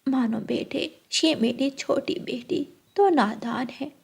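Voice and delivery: quiet gentle elder voice; smooth it over kindly; soft mother-in-law. Acted. Mother gently scolding daughter and calming groom, soft.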